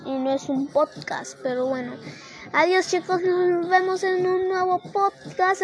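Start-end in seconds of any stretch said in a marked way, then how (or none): 2.5-5.6 excited sign-off. Real, not acted. Cheerful high sign-off.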